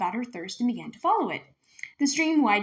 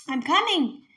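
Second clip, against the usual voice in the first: calling; 6 semitones higher, 4 dB louder, slower than usual. Acted. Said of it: "Minley called again".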